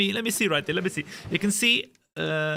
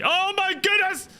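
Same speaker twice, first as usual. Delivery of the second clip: surprised; 10 semitones higher, 3 dB louder than usual. Real, not acted. Sees rain in game.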